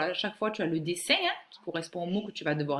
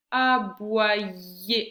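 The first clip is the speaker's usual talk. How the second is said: "Aboyer" drawn out, a little louder; syllable by syllable; 5 dB louder than usual. Shown as a demonstration. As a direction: separate the syllables of "Aboyer" clearly. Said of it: "ye sur la troisième syllabe".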